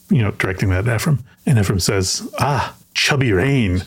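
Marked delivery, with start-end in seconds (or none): 2.4-3.8 put-on heavy Caribbean English accent. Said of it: "he's got sort of a heavy accent".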